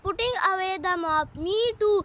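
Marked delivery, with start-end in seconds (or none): 1.5-2.0 moaning. Acted. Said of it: "moaned Hannah".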